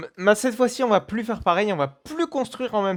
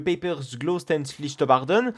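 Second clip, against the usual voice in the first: clumsy French attempt at a German accent; bad German accent; 3 semitones lower than usual. Real, not acted. Vlogger reading out a German name on the park tour, rotten German accent. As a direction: stumble through a German name in a poor accent. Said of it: "excusez-moi pour mon accent allemand qui est absolument pourri".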